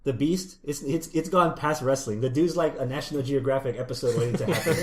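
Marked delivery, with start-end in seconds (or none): 2.2-4.8 laughing. Real, not acted. Laughing while joking.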